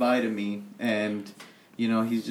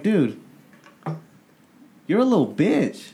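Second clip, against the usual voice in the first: retold insult; 7 semitones higher, 3 dB louder than usual.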